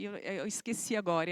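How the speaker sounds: usual speaking voice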